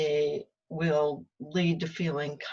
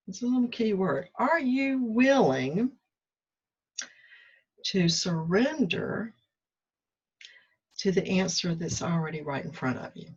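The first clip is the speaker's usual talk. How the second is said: slow tender question; 3 semitones higher than usual. Retold or imitated. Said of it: "It was".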